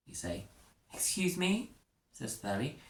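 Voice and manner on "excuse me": affronted. Acted. Teacher Thurley affronted.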